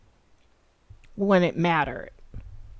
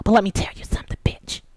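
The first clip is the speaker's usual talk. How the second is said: menacing whisper; faster than usual. Real, not acted. Threatening viewers.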